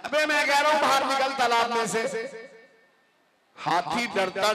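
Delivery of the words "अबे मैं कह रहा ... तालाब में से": angry mouse. Acted. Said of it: "बहुत ही गुस्से में".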